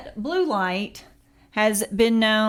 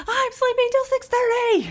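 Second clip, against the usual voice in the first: imitating daughter; 13 semitones higher than usual. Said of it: "she was like".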